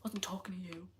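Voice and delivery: teasing whispered put-down; quiet mischievous whisper. Real, not acted. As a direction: whisper it like a cheeky secret. Teasing aside to a chatter.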